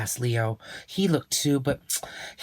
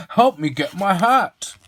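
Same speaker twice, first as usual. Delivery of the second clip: louder, higher call for help; 7 semitones higher, 7 dB louder than usual. Acted. Mister Zinger calls Leo to fetch his hat. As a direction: call the boy over to help. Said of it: "he called".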